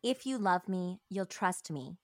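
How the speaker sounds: a hint of a calm, set father; calm determined father. A father calmly presses his daughter, lightly voiced calm and determined. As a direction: say it evenly, sure of yourself. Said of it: "very deep, very calm, and very determined".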